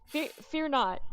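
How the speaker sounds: loud, holy proclamation; angelic voice. Acted. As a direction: speak like a heavenly angel. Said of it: "she thinks she's Jesus".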